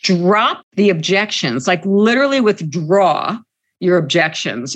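slow, spelled-out demand; slow firm demand. Real, not acted. Organizer stating the union's demand to employer, slow and firm. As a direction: set down the demand word by word. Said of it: "our demand was".

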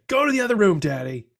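dad imitating his toddler son banishing him. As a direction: squeak it like a bossy two-year-old. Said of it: "That's what Jack said?".

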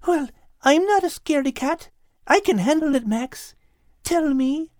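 lightly voiced little dog pleading; pleading Kate. Kate pleading with Max to tell her. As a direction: coax him to tell. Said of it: "pleaded Kate".

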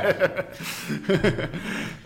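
real, sustained laughter; amused laugh. Real, not acted. Cohost reacting to a joke about hospitalizing people, amused laughter. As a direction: crack up at a friend's remark.

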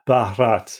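"Bharat" with the H brought out after the B; "Bharat" repeated carefully with an audible H; careful pronunciation attempt. Shown as a demonstration. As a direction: try out "Bharat", leaning on the breathy H. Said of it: "it's more the H".

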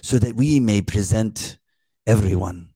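put-on slow, drawn-out reading with a light accent; lightly accented, lulling impression of the reader; imitating a slow reader. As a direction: read it slowly like a sleepy Bible narrator. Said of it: "he reads it kinda like this".

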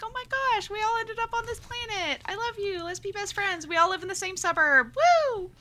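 high, bubbly gushing friends; gushing excited humans. Retold or imitated. Friend to friend, imitating giddy humans, squealing. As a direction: gush like giddy new best friends.

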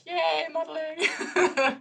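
high, slow, laughing mock cheer; slow, giggly mock cheer over modeling; mock excitement. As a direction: stretch it out like a giddy teen. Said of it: "I'm like".

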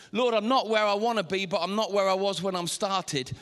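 insistent, emphatic sermon build; impassioned preacher, measured and forceful; rousing preaching declaration. Acted. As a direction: drive each phrase home like a vow.

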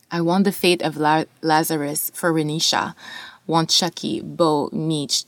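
measured spoken word reading; poetry reading. Acted. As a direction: read the poem with weight. Reads poem aloud.

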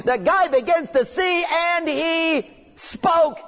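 preacher marvelling as the mute man speaks; excited preaching. Real, not acted. Preacher tells the congregation of the healed man, slowly and excitedly. Preacher telling of healing miracle.

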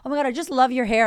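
loud, fast gush of praise; excited compliment. Pretend. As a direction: rush out the compliment with delight. Compliments a stranger.

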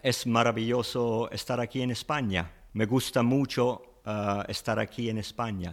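fluent native Spanish. Shown as a demonstration. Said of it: "How about if I wanted to say".

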